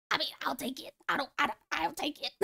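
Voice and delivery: shy, breathy whisper, barely voiced. Real, not acted. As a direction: whisper it, bashful after the praise. Shy reply to a compliment.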